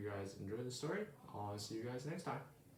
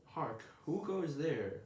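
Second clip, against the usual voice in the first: slow, a touch higher watchman call; mock sentry challenge; 4 semitones higher, slower than usual. Early Bird playing night watchman, slow and grand. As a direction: call it out like a castle guard, lightly hammed. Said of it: "Or should I say".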